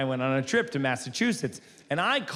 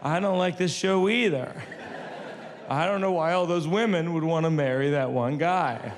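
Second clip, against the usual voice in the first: higher-pitched, casual little mouse; Stuart Little; 4 semitones higher than usual. Retold or imitated. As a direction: chat up at her like an unbothered TV companion. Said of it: "like Stuart Little".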